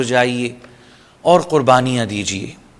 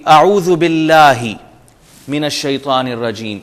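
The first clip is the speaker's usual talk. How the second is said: Quranic recitation. Shown as a demonstration. Teacher reciting the phrase for students. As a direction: intone the phrase carefully. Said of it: "جیسے ہم نے پڑھا کہ".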